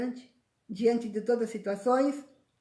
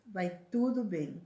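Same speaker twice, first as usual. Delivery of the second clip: calm reassurance. Shown as a demonstration. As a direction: settle it gently. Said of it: "Fala assim".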